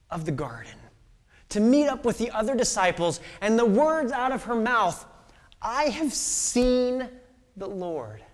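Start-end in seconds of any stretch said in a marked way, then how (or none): 5.6-8.2 awed proclamation. Acted. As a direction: announce it as the greatest news. Mary announces the resurrection.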